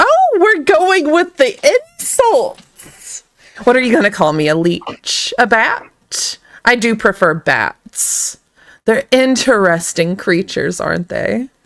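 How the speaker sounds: breezy, cheerful, swooping sing-song chatter. Voicing a shackled vampire greeting the guards: smiling as Marcus. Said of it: "and he's smiling".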